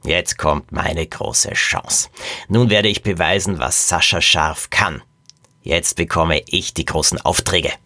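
villain's slow, pleased boasting; smugly satisfied. Acted. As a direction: savour the coming big chance. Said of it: "stellte der Mann zufrieden fest".

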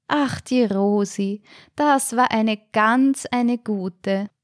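wistful sigh. Acted. Residents sigh over Rosi.

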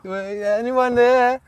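high, very drawn-out call. Retold or imitated. Newcomer alone at the farm shed, calling out. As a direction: stretch it out, searching for a reply.

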